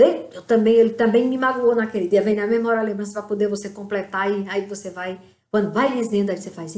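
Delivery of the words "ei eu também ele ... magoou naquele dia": carnal side. Pretend. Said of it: "o lado carnal vai dizendo".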